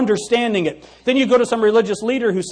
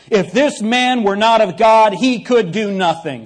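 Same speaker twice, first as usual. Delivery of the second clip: mock the leaders while reading on; 3 dB louder than usual. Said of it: "He's mocking them".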